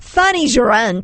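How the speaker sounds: amateur British accent; light mock-British delivery; attempted British accent. Shown as a demonstration. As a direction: try the phrase as a would-be Brit. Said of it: "say these all with a British accent".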